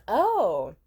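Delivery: slow, sour put-down, trailing off; a lightly voiced sour old lady sneering; tart and rude. Rude old office lady sneering at the girl with the dog. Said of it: "very tart, rude, sour old lady".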